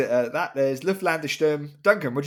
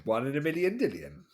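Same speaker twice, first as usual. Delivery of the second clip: sing-song bingo number call; bingo caller; 3 dB quieter than usual. Pretend. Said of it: "Is that you doing bingo calling?".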